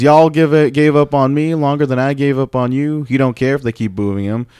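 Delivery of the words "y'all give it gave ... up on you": put-on southern accent, pitched up. Host quoting a wrestler's promo, in a southern accent. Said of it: "I don't know why I have a southern accent".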